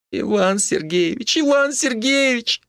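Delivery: high, slow pleading cry; pleading young woman. Acted. Captive wife pleading with the old neighbour, high slow cry. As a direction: call his name high and slow, begging.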